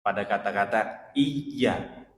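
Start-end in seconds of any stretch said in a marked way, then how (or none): 1.2-2.1 'iya' with the y doubled; slight press. Shown as a demonstration. Teacher showing the doubled letter, pressed y. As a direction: lean slightly on the middle of 'iya'. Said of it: "itu ada tekanan sedikit".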